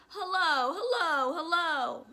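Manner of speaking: high, loud parrot squawk; loud high-pitched bird greeting; talking parrot. Acted. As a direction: call it out like a parrot. Parrot call, voiced in story.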